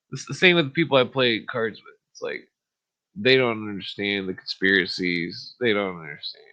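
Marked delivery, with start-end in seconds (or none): none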